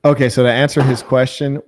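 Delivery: deep put-on voice. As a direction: answer like a stiff deep-voiced butler. Answers viewer in put-on voice.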